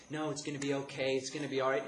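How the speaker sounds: imitating a mother straining to reassure; reassure, slightly high and loud, keeping the worry down; strained motherly reassurance; holding it in. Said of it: "she's trying to hold it in".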